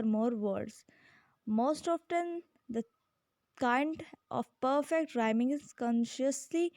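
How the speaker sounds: reading a definition aloud, very slowly; slow, careful classroom read-aloud; slow textbook reading. Acted. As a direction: dictate each word so students can follow.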